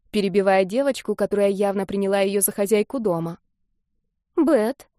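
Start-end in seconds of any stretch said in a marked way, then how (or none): 4.3-4.9 put-on high, unsure child's answer; a flustered kid giving her name; confused little girl. A narrator's reading. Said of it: "растерялась та".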